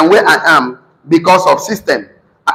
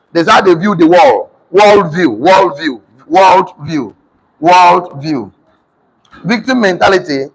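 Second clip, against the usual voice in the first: dictating notes. Acted.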